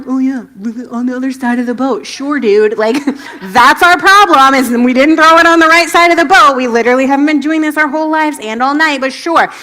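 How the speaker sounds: mock-sarcastic fishermen, laughing through it. Fishermen scoffing at the stranger's tip, sarcastic. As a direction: roll your eyes at the advice. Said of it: "sarcastically threw it".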